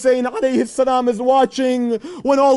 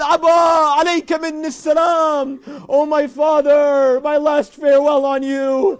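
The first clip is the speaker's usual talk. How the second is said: calling out; 3 semitones higher than usual. Acted. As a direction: call out a last goodbye to father. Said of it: "He calls out".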